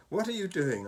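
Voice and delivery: curious. A narrator's reading. Fishlegs asks Hiccup about the strange noises, curious. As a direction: ask it with open curiosity. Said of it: "asked Fishlegs curiously".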